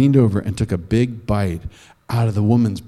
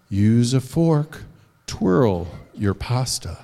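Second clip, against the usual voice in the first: prim correcting; 2 semitones lower, 4 dB quieter, much slower than usual. Acted. Missus Wizard correcting manners.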